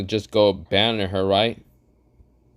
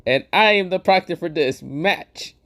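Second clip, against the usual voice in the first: Gojo voice; 7 semitones higher than usual. Acted. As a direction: play the cocky sorcerer, pitched up. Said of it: "Gojo says".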